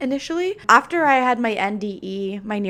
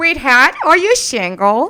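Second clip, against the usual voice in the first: booming, very loud, goofy, swooping, sing-song cartoon-dad voice; 5 semitones higher, 9 dB louder than usual. Podcast host asks a question in a Peter Griffin voice. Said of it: "I'm going to ask the questions like Peter Griffin".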